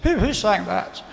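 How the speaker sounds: lightly imitated posh accent; slow, slightly posh questioning; a hint of a posh gent's accent. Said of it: "He's kinda posh".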